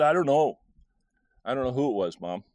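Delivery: a little scared. Retold or imitated. Child answering a worked-up mom, a little scared. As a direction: act a slightly rattled kid. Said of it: "I started getting a little scared".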